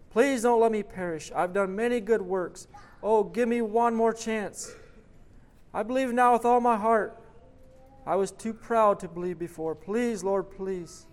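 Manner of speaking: high, loud, desperate begging; heartbroken plea. A narrator's reading. A heartbroken man begging the judge of heaven, loud and high. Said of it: "The sincere outburst from the heartbroken man".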